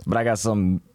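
cold-roughened husky voice; husky from a head cold; sick raspy voice. Real, not acted. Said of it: "can I say smooth, sexy, sultry".

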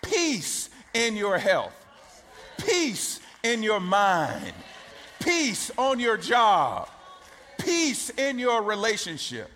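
preaching blessing. Acted. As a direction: proclaim peace over them. Decreeing peace over the congregation.

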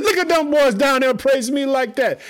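high, loud preacher voicing an excited God; thrilled exclamation. God looking down at the praising boys, thrilled. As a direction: cry out in high-pitched delight.

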